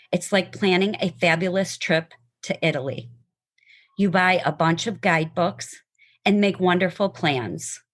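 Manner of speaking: measured, earnest reading of a poem; heartfelt poem recitation. Acted. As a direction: read it like a cherished poem to a friend. Reads poem aloud to listeners.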